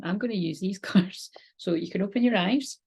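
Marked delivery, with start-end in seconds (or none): 0.0-1.3 whispered laugh. Real, not acted.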